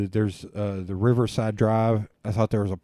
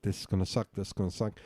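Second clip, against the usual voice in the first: muttered dread; 3 semitones lower, 9 dB quieter, faster than usual. Retold or imitated. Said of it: "I was like".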